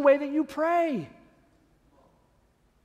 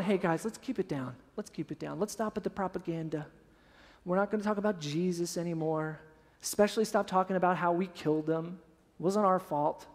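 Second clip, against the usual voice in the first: low, very soft cautioning voice; hushed Sanhedrin; 6 semitones lower, 9 dB quieter than usual. Acted. Sanhedrin telling believers to stop preaching, hushed and low. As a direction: keep it down, as if hushing followers. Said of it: "The Sanhedrin's going".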